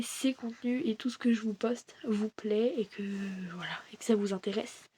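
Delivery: soft unvoiced whisper. Real, not acted. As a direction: breathe the words almost silently. Hopeful closing words.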